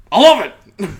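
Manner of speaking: high, loud gushing delight; excited shriek. Retold or imitated. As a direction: squeal it like a thrilled fan. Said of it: "called, went".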